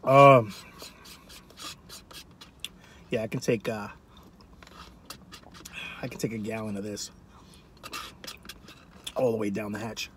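talking between spoonfuls; spoon in mouth. Real, not acted. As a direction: mouth partly full. Seen 1: Red plastic spoon repeatedly brought to mouth while he speaks.

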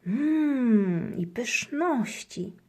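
lightly voiced greedy hamster; murmuring hamster. A narrator's reading. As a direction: savour the treats. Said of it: "mruczy, mruczy pod nosem chomik".

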